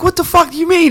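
retold freak-out. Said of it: "he was like".

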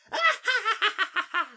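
high, loud maniacal cackle; crazed cackle. A narrator's reading. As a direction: cackle like a villain losing it. Gertrud turns mad again. (vanvittig høj latter)

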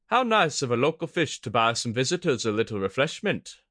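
lightly voiced coy woman; teasing, coy and amused; sly amused woman.

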